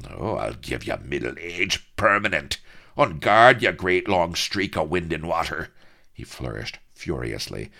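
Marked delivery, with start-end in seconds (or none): 0.1-5.7 sudden loud cry of on guard; pirate shouting on guard before the duel; on guard challenge. Acted. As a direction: bark the challenge then sneer. Duel challenge between rivals.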